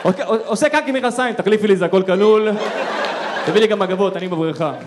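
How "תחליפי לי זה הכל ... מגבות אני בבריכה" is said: spoiled hotel guest. Retold or imitated.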